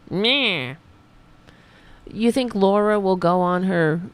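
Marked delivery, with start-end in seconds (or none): 0.1-0.7 drawn-out jeering "nyah"; mocking bleat. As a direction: mimic the host with a long "nyaah". Mocking noise after addressing Laura.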